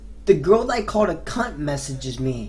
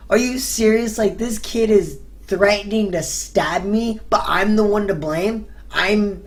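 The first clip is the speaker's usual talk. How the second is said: raised, incredulous protest; indignant disbelief; 3 semitones higher than usual. Retold or imitated. Arguing with the cop who blamed the storyteller, indignant. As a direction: push back in pitched-up disbelief.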